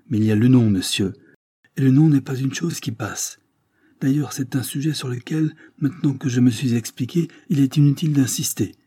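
plus fort et plus aigu, ferme; refus ferme. Acted. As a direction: tranche avec autorité. (fermeté hautaine, plus forte)

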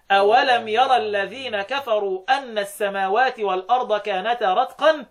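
slow measured tajweed reading; the other readers' reading, keeping the waw; Quran recitation. Shown as a demonstration. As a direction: recite it slowly with drawn-out vowels. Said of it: "بقية القراء يثبت الواو يقولوا إيه".

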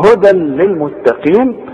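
هدى للمتقين said without humming the tanween; no nasal hold. Shown as a demonstration. Teacher keeps it simple for students, هدى without nasal hold. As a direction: join هدى to للمتقين with no ghunna. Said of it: "ما غنش هنا مؤقتا".

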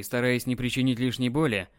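ordinary delivery

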